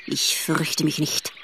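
low, slow and rasping. A narrator's reading. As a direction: rasp the words out like a small creature. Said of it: "mit einer rasselnden Stimme". (rasselnde Stimme)

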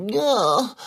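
high, aggrieved whine; pained complaint. Acted. Cat blames mechanic for worse toothache, wailing accusingly.

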